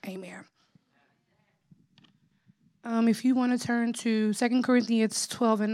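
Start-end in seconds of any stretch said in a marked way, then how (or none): 0.1-0.5 prayer. Acted. Opening prayer before sermon.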